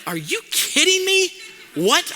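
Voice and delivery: high, incredulous outburst; angry disbelief. Retold or imitated. Pastor hearing the land sold, in shocked disbelief. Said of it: "I was really angry".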